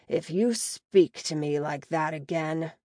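light sneering orc threat. Acted. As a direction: sneer the warning at her. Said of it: "he says with a sneer".

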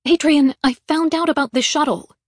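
sharp, loud snap; snapped. Acted. Mallory confronting Adrian about the shuttle, snapping. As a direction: bite the words off at him. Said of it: "she snapped".

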